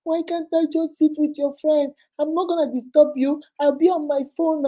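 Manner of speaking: put-on high, pleading little boy. Youngest son begging to sit with sister, high and pleading. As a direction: beg to be let in. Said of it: "Would you say".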